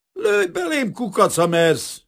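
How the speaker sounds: very high, loud, defiant snarl; snarled dare. A narrator's reading. Kazimír facing a drawn revolver, snarling defiantly. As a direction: snarl the challenge at full pitch. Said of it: "vicsorgott rá Kazimír a revolverre".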